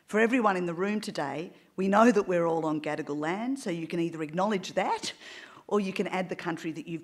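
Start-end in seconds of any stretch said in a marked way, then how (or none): none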